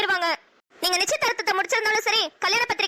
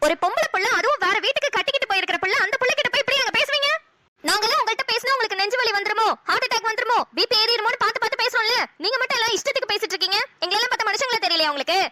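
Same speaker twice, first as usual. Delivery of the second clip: mother's heated telling-off; exasperated reproach; indignant scolding; 3 semitones higher than usual. Acted. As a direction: scold in an insistent, aggrieved run. Mother scolds father for yelling.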